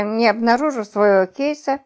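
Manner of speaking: ordinary delivery, nothing marked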